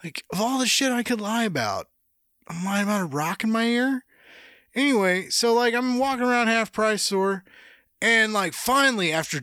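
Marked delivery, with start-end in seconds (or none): 0.0-4.1 put-on exasperated kid. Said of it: "I'm like".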